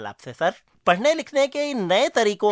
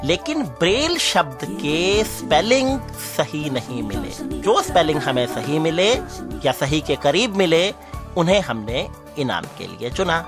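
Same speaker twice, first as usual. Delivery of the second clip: deliberate winner announcement over music; announcer read. Acted. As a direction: announce contest results, spacing out the key words.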